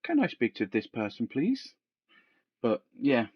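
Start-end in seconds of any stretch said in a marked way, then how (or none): 0.0-1.7 phone voice. Retold or imitated. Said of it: "I'd answer and I'd go".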